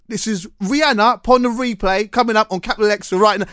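a hint of a slick commercial radio link; lightly voiced Capital Extra presenter read; mock radio DJ voice. Radio producer demonstrating the DJ read, lightly voiced. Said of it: "Say it a bit like that".

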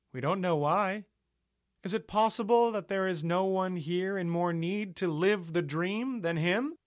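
high, loud, very slow pious appeal; creepy compassionate preacher. Acted. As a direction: draw the crowd in with eerie compassion.

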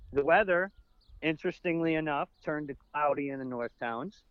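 lightly put-on forecast read; weather segment. Co-host presenting the podcast's weather segment, mock forecaster. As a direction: announce it like a radio weatherman. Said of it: "I'm trying to do a weather segment".

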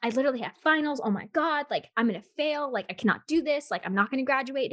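mildly panicked retelling, pitched a little up. Retold or imitated. Dreamer fretting to partner about failing finals, mildly panicked. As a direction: replay a rising fluster, not full panic. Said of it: "I'm so panicked in my dream".

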